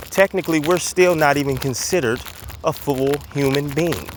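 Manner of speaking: slightly winded while walking; out of breath. Real, not acted. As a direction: talk while walking briskly. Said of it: "I sound like I'm out of breath".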